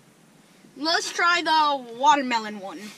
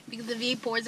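whispered aside; 7 dB quieter, faster than usual. Real, not acted. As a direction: whisper it behind a hand. Aside to camera.

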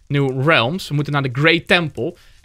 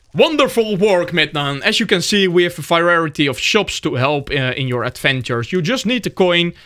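a hint of a cheerful merchant, a touch higher; lightly voiced shopkeeper; 4 semitones higher than usual. Gamer reading the shopkeeper's lines to viewers, lightly acted merchant voice.

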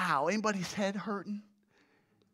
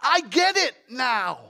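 loud, drawn-out ah of discovery; as if it just dawned on you; acted-out moment of revelation; sudden realization; 3 semitones higher, 5 dB louder, slower than usual. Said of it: "when something dawns on us".

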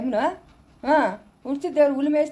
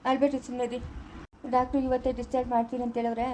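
soft, calm reassurance; lowered, comforting voice; gentle soothing; 6 dB quieter than usual. Acted. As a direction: quietly hush someone who is crying. Soothing a crying new mother.

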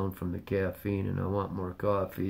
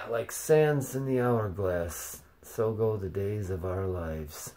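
soap opera announcer; slower than usual. Pretend. Soap opera intro parody.

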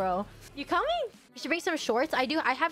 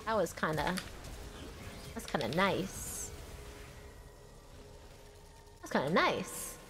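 soft murmur; 6 semitones lower, 8 dB quieter than usual. Real, not acted. Quietly pleased at game.

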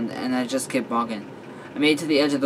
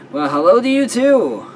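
higher, louder exaggerated hello; mock-sweet greeting; 9 semitones higher, 7 dB louder than usual. Friend caught laughing at me in the lake, exaggerated greeting. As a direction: call it out high and pointed.

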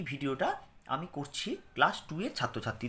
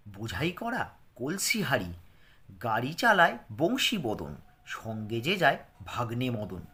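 poem recitation. Shown as a demonstration.

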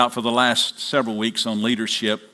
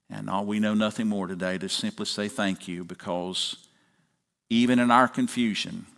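public prayer; 3 semitones lower than usual. Acted. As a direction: lead the congregation in prayer, settling into a hushed amen. Pastor leads congregation in prayer.

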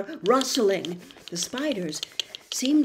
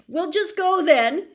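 higher, desperate call to the spider; frightened boy calling out, pitched up; 9 semitones higher, 7 dB louder than usual. Acted. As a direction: call out, trying to escape. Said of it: "Harry called desperately".

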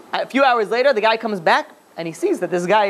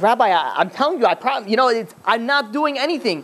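higher-pitched acted protest, faltering over the words; mildly scared; 4 semitones higher than usual. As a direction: plead innocence with a touch of fear. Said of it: "So the guy gets very scared".

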